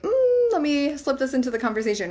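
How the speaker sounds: lightly voiced sly husband, quick, a high hum first. Husband slyly slipping in advice, lightly voiced sneaky tone. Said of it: "he'll even try to slip it".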